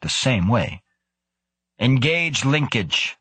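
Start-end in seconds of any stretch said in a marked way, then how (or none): 1.8-3.2 slow, hard command; cold firm voice. A narrator's reading. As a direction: give the order coldly. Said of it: "said Krebs".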